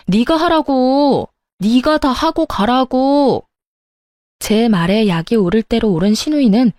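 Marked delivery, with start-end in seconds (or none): 0.1-3.5 slow, higher, emphatic demand, each word pressed out; insistent demand. Acted. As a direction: drag it out to force her to obey. Sister-in-law demanding in quarrel. (또박또박 느리게 밀어붙이는 화난 요구)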